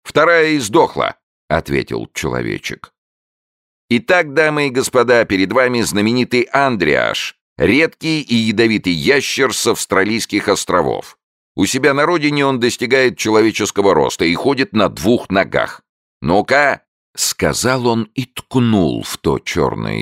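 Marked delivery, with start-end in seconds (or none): 0.0-1.2 squeaky little man, pitched up high; high showman voice. A narrator's reading. Little showman answering Pavondra, high squeaky voice. 3.9-16.8 high, loud fairground barker voice; barker showman. A narrator's reading. Little man announcing his newt to the ladies and gentlemen, high loud barker.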